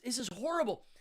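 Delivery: mock horrified outrage; disgusted. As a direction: recoil from the stench. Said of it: "And I'm like".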